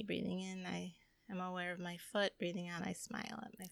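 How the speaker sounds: soft, fast run-through of a mantra; hushed, quick meditation example; meditation recital. Retold or imitated. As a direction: recite a breathing exercise quietly and lightly. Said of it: "you can do it with each part".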